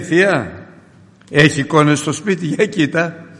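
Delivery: high, loud insistent tattle; tattling cousin. Retold or imitated. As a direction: push the aunt to look. Cousin reports no icons. (ο ξάδερφος επιμένει στη θεία, ψηλά και δυνατά)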